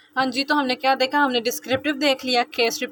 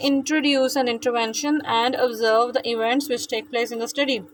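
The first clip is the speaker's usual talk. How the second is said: reading the textbook line out slowly; slow definition read-out; much slower than usual. Acted. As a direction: dictate it slowly to the class. (किताब की परिभाषा धीरे-धीरे पढ़ना)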